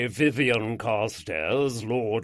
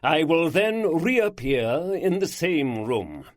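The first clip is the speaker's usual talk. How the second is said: slow, louder, higher proclamation; bolder, every phrase emphasized; 4 semitones higher, 5 dB louder than usual. Acted. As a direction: hammer home each phrase like a ringmaster. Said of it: "his voice was bolder, emphasizing each phrase".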